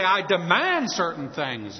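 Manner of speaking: slow, weighted "demand"; sarcastic imitation of a proud demand; mock demanding tone. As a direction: play the entitled asker. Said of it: "They say".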